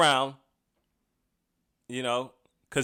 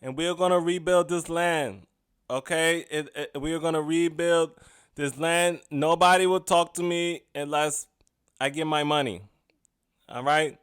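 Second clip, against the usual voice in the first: mock politician; 3 semitones higher than usual. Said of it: "talking to the Pakistani people like a politician".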